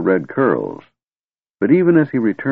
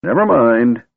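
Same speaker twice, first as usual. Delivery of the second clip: smiling; 5 semitones higher, 5 dB louder than usual. A narrator's reading. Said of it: "Fizban smiled".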